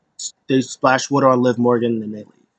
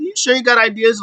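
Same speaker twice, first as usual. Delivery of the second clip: mock sceptical jab; 9 semitones higher than usual. Owens doubting Riddle, retold.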